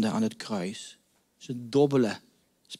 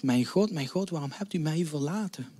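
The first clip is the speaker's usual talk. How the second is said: softer, fading quiet recital of the cry; soft anguished lament; 6 dB quieter than usual. Acted. Jesus's cry recalled from the psalm, quiet and hushed. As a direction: say it quietly to yourself, broken.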